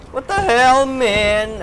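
high, loud protest; exasperated outburst. Real, not acted. Gamer who should have got the kill, exasperated. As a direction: burst out in real frustration.

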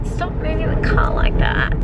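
jolted voice in a bouncing car; on a bumpy road. Real, not acted. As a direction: complain while the car bumps. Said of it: "the road is so bumpy".

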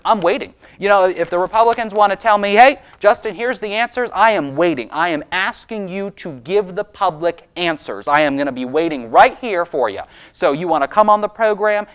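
really worked up, pressing for answers; riled up. Real, not acted. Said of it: "sorry I'm all riled up".

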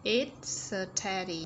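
very slow "It's a teddy", S linked onto "a"; stretched teacher's model with "It's" flowing into "a"; linked sounds. Shown as a demonstration. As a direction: draw out "It's a teddy" while joining "It's a". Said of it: "Nối âm này".

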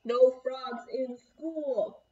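loud, slow stern teacher; stern rule. Acted. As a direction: announce the rule with slow authority.

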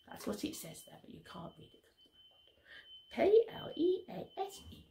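soft whispered spelling out; hushed aside. Pretend. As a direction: confide it quietly to a small child. Aside spelling word to child.

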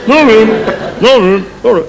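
put-on high, curt child's refusal; lightly acted kid playing an innkeeper. Same kid as every innkeeper turning them away, curt.

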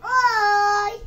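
hoarse little greeting; a hoarse voice, worn out from crying; small hoarse hello. Real, not acted. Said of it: "Ela tá rouca".

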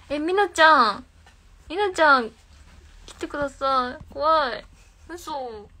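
frightened call for help; scared pleading. Real, not acted. Streamer alone at night calls her friend to come over, scared pleading.

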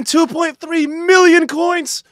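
high, loud, stretched-out exclamation; slow, high shout of amazement; thrilled disbelief. Real, not acted. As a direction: draw out the number in loud excitement. Thrilled at a huge risky pull.

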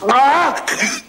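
choking, gasping for air; high, strained, breathless gasps; being squeezed. Acted. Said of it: "ich krieg keine Luft mehr".

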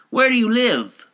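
a high, loud, pressing constable's voice; constable's question. Acted. Constable pressing the drunk man for his address, high and loud.

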